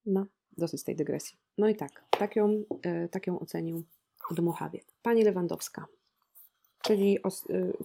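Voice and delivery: usual speaking voice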